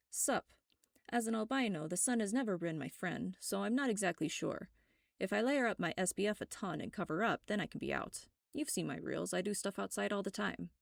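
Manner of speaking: a laid-back friend shrugging it off; casual friend Anton. Acted. Anton texting reply, casual.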